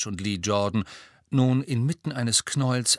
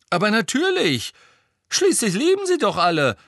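higher, louder exasperated retort; angry; 11 semitones higher, 6 dB louder than usual. A narrator's reading. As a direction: snap back, fed up. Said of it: "sagte Fred erbost".

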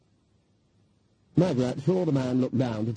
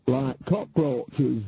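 cheerfully; much slower than usual. Acted. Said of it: "said Nanny Ogg cheerfully".

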